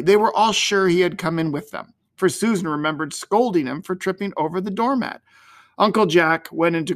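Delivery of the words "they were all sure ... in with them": ordinary delivery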